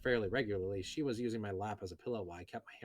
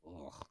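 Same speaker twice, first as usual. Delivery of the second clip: disgusted groan; 5 semitones lower, 13 dB quieter than usual. Real, not acted. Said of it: "This is so much worse than the light novel".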